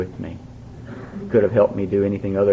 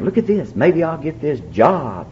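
excited; 4 semitones higher, 3 dB quieter, slower than usual. Retold or imitated. Showing the card excitedly.

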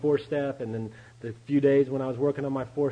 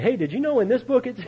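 high, louder excited newcomer; eager discovery; 10 semitones higher, 5 dB louder than usual. Retold or imitated. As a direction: gush as if sharing big news. Acting himself eagerly sharing his discovery.

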